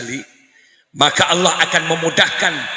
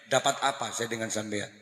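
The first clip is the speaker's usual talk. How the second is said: soft sulky complaint from a wife; wife sulking at husband, quietly bitter; hint of a glaring wife; 3 semitones lower, 10 dB quieter than usual. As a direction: mutter it like a resentful wife. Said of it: "Mendelik istrinya".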